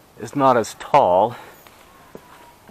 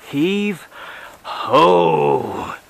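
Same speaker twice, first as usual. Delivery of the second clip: gruff dock worker hollering; 6 semitones higher, 4 dB louder, much slower than usual. Acted. Hauling on the falling tree.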